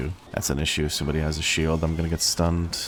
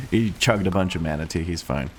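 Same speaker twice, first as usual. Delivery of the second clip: deep warning voice. Real, not acted. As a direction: voice sitting deeper than usual. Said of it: "I definitely have my warning voice".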